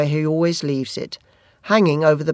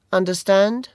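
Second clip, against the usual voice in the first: light bully question; 3 semitones higher than usual. Acted. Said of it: "he repeated".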